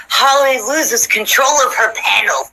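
laughing through a slow mock news headline. Host jokes about tomorrow's headline, laughing as she reads it. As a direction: announce it like a headline while cracking up. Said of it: "the headline news is gonna be like".

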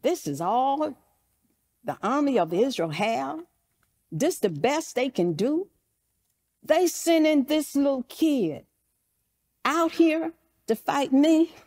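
insulted incredulity, rising at the end; Goliath. Acted. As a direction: act affronted by a puny opponent, mildly. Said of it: "he's insulted".

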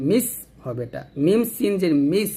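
মিস ending in a sharp whistling s; seen's s. Shown as a demonstration. Teacher contrasting seen with tha, sharp s in মিস. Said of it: "সিন হচ্ছে জিহ্বাটা নিচে দাঁতে লাগে".

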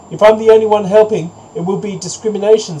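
high goose protest; goose refusing. A narrator's reading. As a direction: object in a high storybook voice.

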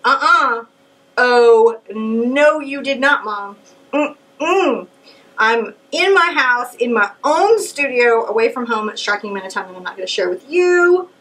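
loud, offended protest at mom; a hammed-up huffy daughter; indignant outburst. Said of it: "and I'm like".

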